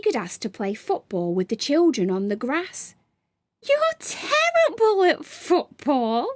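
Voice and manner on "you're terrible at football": a high mocking creature voice, lightly laughing; laughing taunt. Gray jeering at Sam about football, high mocking taunt. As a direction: jeer at him like a little goblin. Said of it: "laughed Gray".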